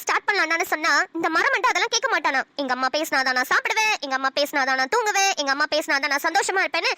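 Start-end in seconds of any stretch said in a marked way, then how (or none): 2.6-6.9 lower-pitched mock quote; imitating husband. Wife complaining to mother-in-law, lightly imitating husband's mama's-boy refrain. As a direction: lightly parody his repeated refrain. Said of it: "எப்ப பாரு உங்க புராணத்தை பாடிட்டு இருந்தா".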